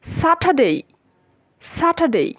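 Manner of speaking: "স্যাটারডে" high then falling, silent r, full "dey" glide; correct pronunciation. Shown as a demonstration. Teacher giving the correct form to learners, careful model pronunciation. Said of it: "সেদিক থেকে আমরা এটা use করব".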